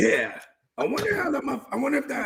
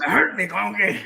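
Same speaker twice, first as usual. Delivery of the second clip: put-on Scottish accent. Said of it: "our poor Scottish accents".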